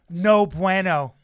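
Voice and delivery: slow, loud mock Spanish "No bueno". The speaker mocking his co-host's texts, slow loud mock Spanish. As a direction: drag out "No bueno" in a hammed-up Spanish accent. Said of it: "When Brendan's annoyed, he'll write".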